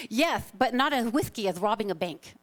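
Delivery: lightly lisped cartoon accent for a punchline; Elmer Fudd accent. Speaker retrying a joke's punchline, lisping cartoon accent. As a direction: have a go at a cartoon lisp, s turned to th. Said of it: "do my best with this, uh, accent".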